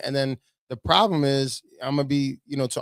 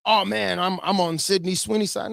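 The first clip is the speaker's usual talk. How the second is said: higher-pitched mock fan voice; a hint of a put-on partisan, pitched up; mock supporter; 5 semitones higher than usual. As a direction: lightly mimic an eager supporter taking sides. Mimics a conservative taking her side.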